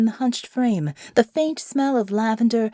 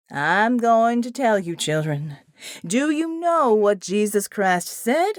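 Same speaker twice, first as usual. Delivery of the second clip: slow, lilting preacher, rising at the end; sing-song preacher. Acted. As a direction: draw out the words like a country pastor. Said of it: "in his sing-song voice".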